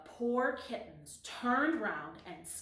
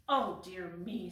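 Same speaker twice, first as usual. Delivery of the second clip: sighing kitten; 2 semitones lower than usual. Acted. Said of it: "sighed Whitey".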